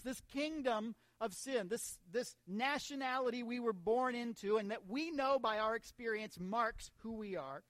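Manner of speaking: measured, weighty verse reading; emphatic scripture preaching. Real, not acted. Preacher reading Paul's verse to church, emphatic preaching. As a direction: proclaim the verse, stressing key words.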